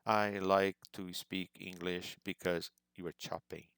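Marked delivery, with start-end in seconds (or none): 0.0-2.2 word-by-word "I like to speak English" with small breaks; halting, chopped-up learner phrasing; choppy delivery. Shown as a demonstration. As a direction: chop "I like to speak English" into separate words. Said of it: "about chopping too much".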